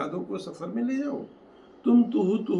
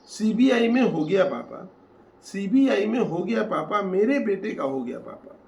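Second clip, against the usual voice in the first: raised, louder voice for proud news; excited announcement; 4 semitones higher, 5 dB louder than usual. Acted. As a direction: announce it eagerly, in verse rhythm. Son announcing happy news to father.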